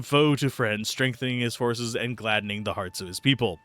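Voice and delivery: grand legend reading; solemn storybook telling; fable narration. Acted. Reading an old fable aloud.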